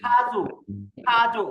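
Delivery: don't say খাজু lightly, hit the খা with air; strong aspiration. Shown as a demonstration. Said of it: "হালকাভাবে বলবেন না".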